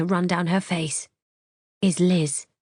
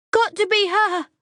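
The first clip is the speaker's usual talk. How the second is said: very high pointed cry; frantic high accusation; accusing shout; 4 dB louder than usual. Acted. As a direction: yell it at her. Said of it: "She's shouting".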